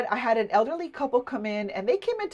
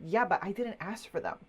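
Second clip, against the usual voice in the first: grumpy customer; 3 semitones lower, 7 dB quieter than usual. Retold or imitated. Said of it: "He's like".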